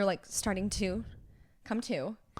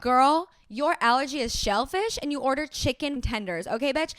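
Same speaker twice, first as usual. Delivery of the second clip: loud, higher, sassy retold scolding; indignant telling-off; 4 semitones higher, 5 dB louder than usual. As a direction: lay into them, point by point. Retold scolding of blaming customers.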